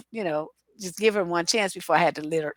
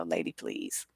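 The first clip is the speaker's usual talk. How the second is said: much lower, softer, unimpressed brush-off; dismissive lady please; 13 dB quieter, slower than usual. Retold or imitated. Retelling how she dismissed an angry caller, low brush-off. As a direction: flatly wave her off, not biting. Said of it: "I said it just in that tone".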